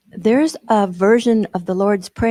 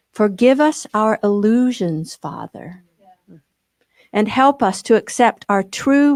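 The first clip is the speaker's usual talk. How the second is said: prayer reading. Acted. Leader reads the Course prayer to the group, reverent. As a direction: read it like a prayer to the Father.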